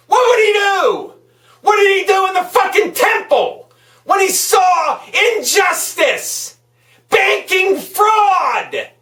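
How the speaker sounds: rising angry shout, pitch pushed up; real anger. Real, not acted. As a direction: yell it at them, truly furious. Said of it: "but I'm mad".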